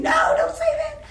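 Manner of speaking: very high, wailing protest; imitated distressed mother. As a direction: imitate a mother shrieking in dismay. Mother refuses in distress, retold.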